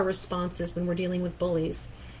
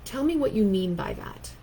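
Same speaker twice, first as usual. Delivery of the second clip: calm confronting line. Shown as a demonstration. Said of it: "what I practiced saying was".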